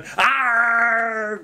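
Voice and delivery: mock straining yell; hammed-up effort grunt. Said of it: "he's sitting there going".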